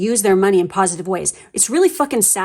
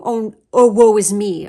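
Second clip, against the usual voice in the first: mock woe is me; 5 dB louder than usual. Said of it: "a feeling of being".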